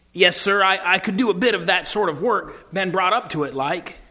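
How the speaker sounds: eager, lightly Cockney working man; Cockney cabbie. Acted. Cabbie telling Aslan he can farm, eager light Cockney. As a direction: answer keenly with a touch of Cockney. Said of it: "quick voice of a Cockney".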